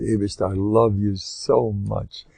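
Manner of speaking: soft, slow loving words to God; tender prayer. Shown as a demonstration. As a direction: say it gently and slowly, like a child to a father. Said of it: "I recommend saying this every day".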